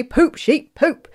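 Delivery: the wind demonstrates the spell; magic command. A narrator's reading.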